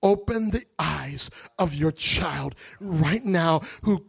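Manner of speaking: slow earnest prayer. Acted. Preacher praying over his people, slow prayer. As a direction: plead slowly with God.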